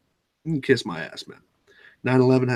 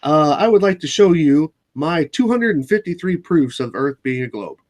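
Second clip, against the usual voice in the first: YouTuber intro voice; 3 semitones higher than usual. Pretend. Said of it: "let's act like we just started a new video".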